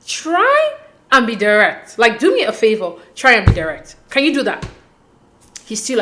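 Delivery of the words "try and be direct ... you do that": boss bitch. Retold or imitated. Woman telling a waffling man to be direct, boss bitch. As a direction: cut him off and lay down the terms. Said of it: "Like the boss bitch that she is".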